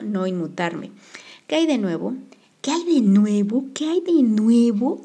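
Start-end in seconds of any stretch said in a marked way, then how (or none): 2.6-5.0 higher, louder, slow sarcastic echo; mocking repeat. A narrator's reading. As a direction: throw the question back scornfully. H mocks the question.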